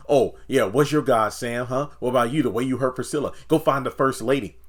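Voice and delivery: loud, fast jeering imitation; hammed-up taunt; mock taunting Nancy. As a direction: throw it in his face.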